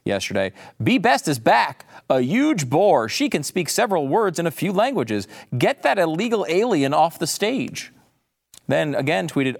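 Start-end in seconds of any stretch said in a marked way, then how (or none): 0.8-7.9 mocking tweet read. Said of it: "Bette Midler tweeted this".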